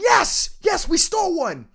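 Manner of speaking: put-on very high, drawn-out celebratory scream. Retelling standing up during a teammate's scoring chance: imitating own screaming. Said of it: "I'm standing up screaming".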